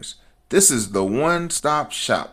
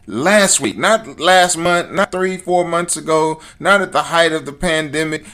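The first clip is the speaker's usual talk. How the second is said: riled up; 5 semitones higher than usual. Real, not acted. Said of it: "I'm getting all riled up".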